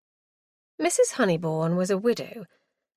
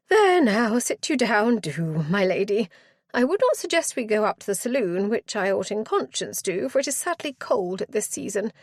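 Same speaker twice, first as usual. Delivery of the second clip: flustered matron; 2 semitones higher than usual. Acted. Matron settling guest.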